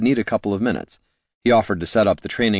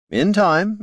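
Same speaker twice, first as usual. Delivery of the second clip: airy; 12 semitones higher than usual. A narrator's reading. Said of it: "the bard assured her".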